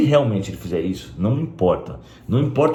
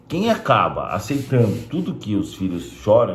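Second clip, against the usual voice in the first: normal talking voice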